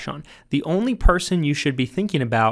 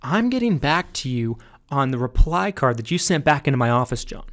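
serious lower tone. Shown as a demonstration. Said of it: "lower my tone back down to cause more of a serious energy".

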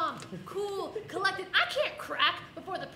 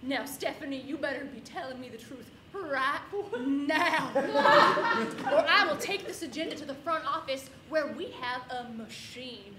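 bad cop; 3 dB louder than usual. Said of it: "she pulls out the big guns".

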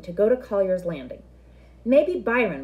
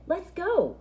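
put-on higher, eager kid voice; thrilled at the adventure; excited boy; 10 semitones higher than usual. Kenny spotting the forbidden landing, excited and higher.

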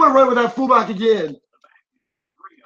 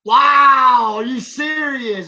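stunned, drawn out; stunned disbelief; 2 semitones higher, much slower than usual. Real, not acted. Disbelief at opponent scoring.

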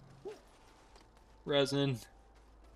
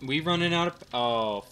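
panicked cursing; 3 dB louder than usual. Real, not acted. Power running out.

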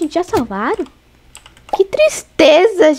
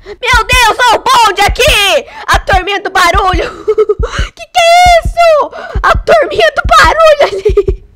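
high, excited screams breaking into laughter; shrieking hilarity; 9 semitones higher than usual. Real, not acted. Streamer spotting the noisy gang running, laughing shriek. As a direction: squeal in amused disbelief.

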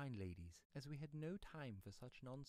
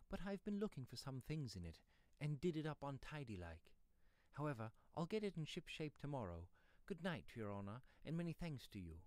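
somewhat higher, obliging rustic; lightly voiced pedlar; 5 semitones higher than usual. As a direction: explain yourself politely as the pedlar.

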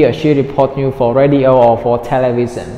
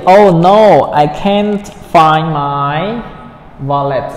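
dismayed; 4 dB louder, much slower than usual. Acted. Dismayed dialogue line read.

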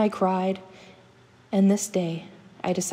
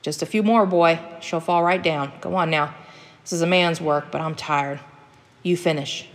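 lightly voiced old hunter giving orders; bossy hunter father; 3 dB louder than usual. Tired hunter father leaving the tree to his boy, bossy. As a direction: hand off the job with mild impatience.

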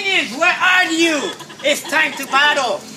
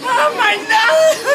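blubbering; 8 semitones higher than usual. Pretend. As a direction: bawl like a baby, much higher. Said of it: "crying like a baby".

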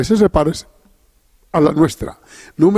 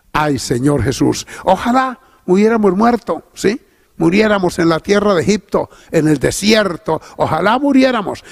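queja lastimera; 3 semitones higher than usual. Retold or imitated. Imita al pueblo quejumbroso.

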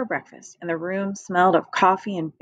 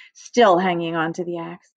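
plain reading voice

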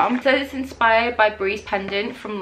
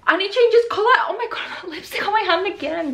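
high laughing squeal; laughing excitement; 10 semitones higher than usual. Real, not acted. Fan laughing as the lamp changes colour. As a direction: laugh through it, thrilled.

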